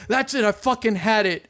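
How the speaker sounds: fed up, imitated without shouting; a singer, mad. Imitating a singer giving up on his band, mock anger. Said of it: "how mad Billy gets".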